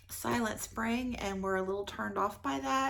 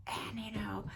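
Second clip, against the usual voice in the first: whisper; 7 dB quieter than usual. Real, not acted. Whispered aside.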